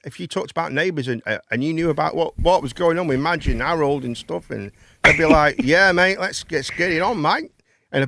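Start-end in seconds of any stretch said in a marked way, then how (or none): 5.6-7.5 mock Australian chat-up; Australian accent. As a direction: lightly put on an Australian accent. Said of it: "bit of an accent".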